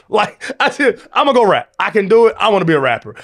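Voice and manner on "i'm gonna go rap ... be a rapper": higher, louder, eager self-quote; mock-keen, pitched up at the start; eager declaration. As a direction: act out a fired-up announcement of a new ambition. Acting out his past eagerness.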